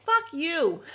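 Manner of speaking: loud mock repeat of the curse. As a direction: throw it back at her hard. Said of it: "And she said it again".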